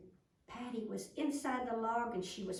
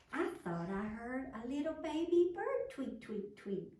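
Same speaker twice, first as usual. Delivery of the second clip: mocking; 3 semitones higher than usual. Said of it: "Everybody was making fun of Patty".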